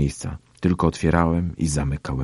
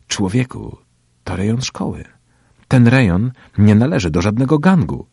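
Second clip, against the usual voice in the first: higher, emphatic comeback; raised-pitch protest; defiant retort; 6 semitones higher, 6 dB louder than usual. A narrator's reading. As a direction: push back against a bully. Narrator argues back at bully.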